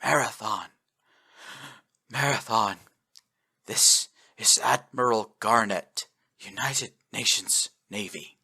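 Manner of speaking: weak, hoarse radio voice; raspy voice. Acted. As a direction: rasp it out, barely holding on. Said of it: "A raspy voice could be heard".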